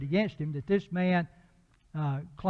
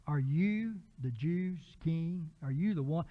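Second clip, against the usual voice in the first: incredulous Pilate; slower than usual. Retold or imitated. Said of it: "he's in essence saying".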